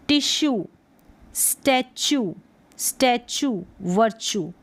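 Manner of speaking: word list ending in long "oo": टिश्यू, स्टैचू, वर्चू; final oo sound. Shown as a demonstration. Teacher modelling spellings, टिश्यू, स्टैचू, वर्चू each ending in "oo". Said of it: "यूई को ऊ pronounce कर रहे हैं".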